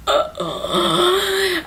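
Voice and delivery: high wordless noise of dismay; horrified groan. Retold or imitated. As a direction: groan high in mock horror.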